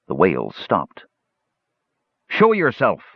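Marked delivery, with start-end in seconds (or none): 2.3-3.0 high, firm demand; insisting. Acted. Tanis demands the unseen wizard show himself, firm and raised. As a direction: call the hidden wizard out. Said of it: "Tanis insisted".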